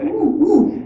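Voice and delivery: put-on high, swooping little-kid oohs; daughter's surprised oohs. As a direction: act out a small child delighted by each discovery. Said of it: "She's still so surprised every time".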